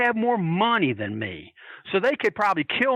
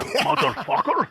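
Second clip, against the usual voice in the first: high, slow, put-on Russian accent; 9 semitones higher, slower than usual. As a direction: draw it out like a Russian wrestler. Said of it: "is he doing it in the Russian accent?".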